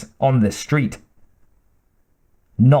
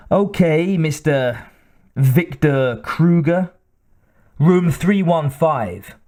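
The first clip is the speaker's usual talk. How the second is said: sleazy desk clerk; 3 semitones higher, slower than usual. Acted.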